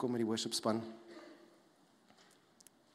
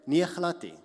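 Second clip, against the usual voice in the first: louder, higher acted refusal; emphatic denial; 6 semitones higher, 9 dB louder than usual. Listener answering the preacher's test of the voice, emphatic denial. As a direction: reject it emphatically in Afrikaans. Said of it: "when you say it like that, it's like".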